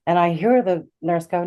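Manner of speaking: ordinary talk, nothing marked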